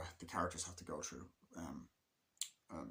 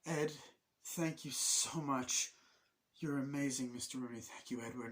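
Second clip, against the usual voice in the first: sweet thank you; 5 semitones higher than usual. Retold or imitated. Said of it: "It's like".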